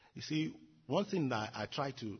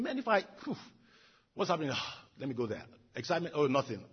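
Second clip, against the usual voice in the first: restless seeker; 5 dB louder than usual. Pretend. Voicing a bored restless person.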